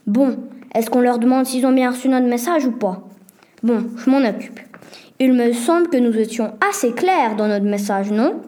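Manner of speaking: usual speaking voice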